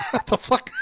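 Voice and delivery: high, loud startled outburst; retelling his panic at the first bump, with a loud high squawk; shocked what the fuck. Retold or imitated. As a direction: blurt it out in shock. Retold shock at being told go.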